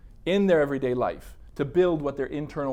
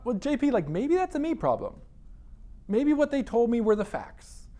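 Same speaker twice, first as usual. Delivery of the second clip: calmer inner voice; 8 semitones higher than usual. Retold or imitated. Reasoning with himself in head.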